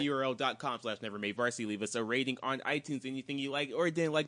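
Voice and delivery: rattled off without a breath; rushed outro read, one breath; all in one breath. Real, not acted. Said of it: "and I did this in one breath".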